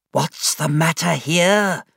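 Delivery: stern headmaster. A narrator's reading. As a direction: demand an answer. Headmaster enters angry.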